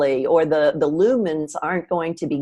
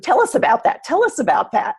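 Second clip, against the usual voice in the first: mock-eager request, pitched up and laughing; higher playful nudge breaking into a laugh; playful teasing; 8 semitones higher than usual. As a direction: tease her with a giggly high plea. Teasing about audience requests.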